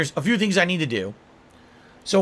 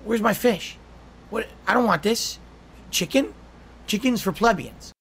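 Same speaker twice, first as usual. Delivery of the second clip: higher, haughty cat turning up its nose; snooty cat voice; 6 semitones higher than usual. Retold or imitated. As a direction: play the pampered cat disgusted by chicken. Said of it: "He's like".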